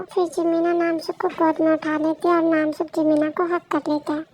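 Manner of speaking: calm narrator stepping out of the scene; story narration. A narrator's reading. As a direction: narrate the scene quietly, like reading aloud. Narrator between character lines.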